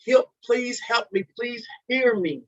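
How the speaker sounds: high, pleading cry for help that softens. Retold or imitated. Broken man crying out to his creator, high pleading cry. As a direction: beg heaven for help, voice cracking high. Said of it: "you're crying out".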